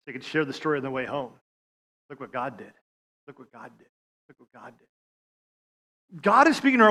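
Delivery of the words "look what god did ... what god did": put-on fading boy's wonder. Boy telling mom, fading.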